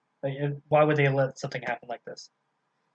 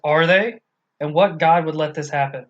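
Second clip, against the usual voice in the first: mildly angry outburst; 2 semitones higher, 6 dB louder than usual. Retold or imitated. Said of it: "fucking gets triggered".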